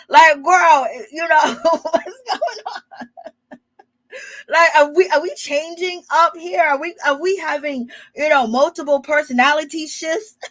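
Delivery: high, laughing through the questions; giggling disbelief at the shift. Real, not acted. Laughing to viewers about Mia's personality shift.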